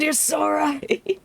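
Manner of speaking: high, slow, gushing; hammed-up eager agreement; mock gushing agreement. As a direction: gush along in a high mock voice.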